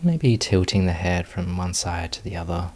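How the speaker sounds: calm, unhurried meditation guiding with long pauses; guided meditation. Real, not acted. Teacher leading students into meditation posture, unhurried guided meditation. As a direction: ease them gently through each movement, leaving space. Leads the settling movement practice.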